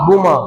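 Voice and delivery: बूमा as boo-maa; taught pronunciation. Shown as a demonstration. Teacher reading the singular to students, बूमा as boo-maa. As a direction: say बूमा with long oo and open ending. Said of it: "और ये क्या लिखा हुआ है".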